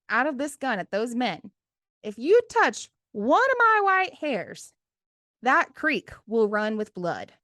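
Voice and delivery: high, loud fierce warning; defiant threat. Retold or imitated. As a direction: stare down the guard and threaten. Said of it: "and said to the guard closest to her".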